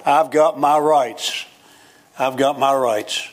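slow, stubborn I've got my rights; lightly mocked entitled grumble; mock self-righteous insistence. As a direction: drag it out like a stubborn claim. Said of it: "I've heard this all my life".

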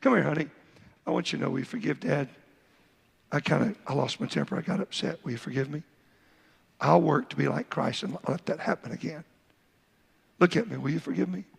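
a hint of a tender dad apologizing; apologetic father. Shown as a demonstration. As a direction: gently ask your son to forgive you. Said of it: "You call him and say".

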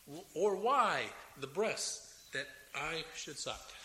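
slow, deliberate reading of Job's lament; slow scripture reading. Acted. Preacher reading Job's lament to congregation, slowly. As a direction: lay out each question slowly.

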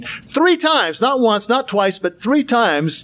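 three times stressed, slowed down; emphatic repetition. Shown as a demonstration. Teacher stressing to his class, three times slow and hard. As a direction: hammer THREE, slow on the last take. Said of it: "Why do you think he said it three times".

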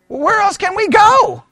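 a hint of a helpless disciple asking; lightly voiced earnest plea; imitating Peter. Peter's reply retold.

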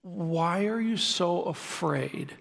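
Jesus gently asking the frightened disciples, slowly; gentle question. Retold or imitated. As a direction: ask them tenderly, drawing it out. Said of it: "and he says to them".

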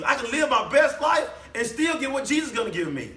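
hammed-up greedy believer; worldly churchgoer voiced. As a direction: play someone thrilled they can sin and still get paid. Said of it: "What were they gonna say?".

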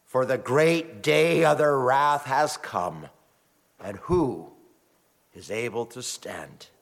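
solemn, measured scripture reading. Acted. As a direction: read the holy word with gravity. Reads scripture aloud.

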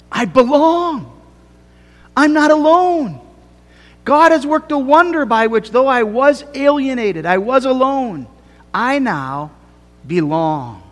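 ringing preacher's declaration; fervent proclamation. Acted. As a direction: declare it with full conviction to the congregation. Preacher proclaims belonging with force.

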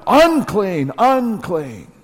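unclean, unclean called out as a warning cry. Shown as a demonstration. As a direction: call out unclean, unclean as a leper must. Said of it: "that we must then cry out".

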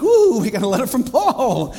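gushing like an excited churchgoer; mock giddy congregation. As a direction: squeal the news with mock delight. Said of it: "everyone in Galatia sort of giddy".

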